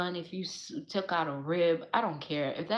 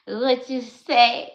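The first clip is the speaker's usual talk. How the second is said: teasing; 4 semitones higher, 10 dB louder, slower than usual. Real, not acted. Teasing the imagined man.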